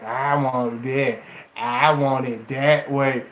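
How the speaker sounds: low, slow, defeated mumble; weak whiny wisher. Retold or imitated. Mocking a weak woman who only wishes, low and slow. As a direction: drag each want out like you've given up.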